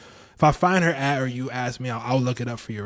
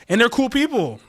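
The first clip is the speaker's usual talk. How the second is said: playful high voice; 12 semitones higher, 6 dB louder than usual. Pretend. Repeated in high put-on voice.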